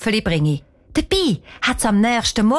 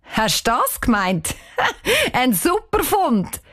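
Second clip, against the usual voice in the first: put-on giggling boy; 3 semitones higher than usual. Janik cracking up over his find, laughing. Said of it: "Er platzt fast vor Lachen".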